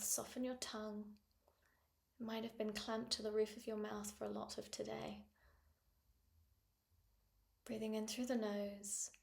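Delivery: unhurried breathing-exercise voice; calm guidance with long pauses between phrases; guided meditation. Acted. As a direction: lead them gently into the breath.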